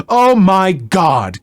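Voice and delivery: slow, drawn-out indignant gasp; righteous indignation. Retold or imitated. Karen scoffing at the stepmom's accent, slow and indignant. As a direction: clutch your pearls and stretch it out. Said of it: "Karen said with righteous indignation".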